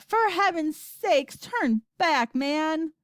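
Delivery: high, exasperated plea; yelling grandma. A narrator's reading. Grandma begging Wonka to turn back, yelling. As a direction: yell it, stretching the first words. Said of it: "yelled Grandma Georgina".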